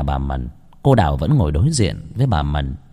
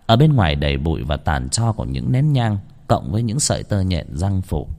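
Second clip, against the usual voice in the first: usual speaking voice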